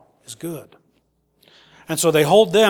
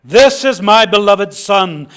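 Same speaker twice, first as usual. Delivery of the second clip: slow, loud proclamation from the cloud; thundered; 2 semitones higher, 7 dB louder than usual. Acted. Preacher voices God proclaiming his Son from the cloud, thundering. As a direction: thunder it out slowly, as God's voice. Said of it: "from this cloud a voice thundered".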